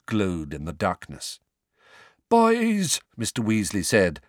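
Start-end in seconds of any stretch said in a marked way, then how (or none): 2.3-3.0 stern father. Acted. Father reproaching sons.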